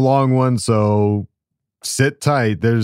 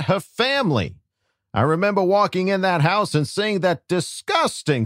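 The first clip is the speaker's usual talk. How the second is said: Peter Griffin voice. Acted. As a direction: read the letter as a goofy cartoon dad. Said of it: "J Rob asked for me to do a Peter Griffin voice".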